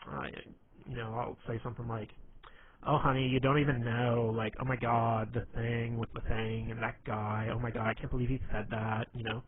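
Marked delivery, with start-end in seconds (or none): 2.8-9.1 lightly put-on gossipy gay man. Shown as a demonstration. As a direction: lightly play a camp, gossiping storyteller. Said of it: "just do it in a gay voice".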